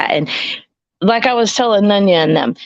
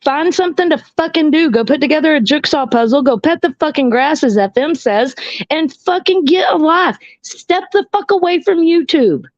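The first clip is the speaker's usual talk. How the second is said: heated rant; 5 semitones higher than usual. Real, not acted. Heated rant at online trolls.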